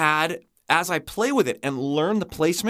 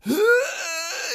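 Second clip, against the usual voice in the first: compressed gasp; 13 semitones higher than usual. Shown as a demonstration. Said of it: "You can feel things close up".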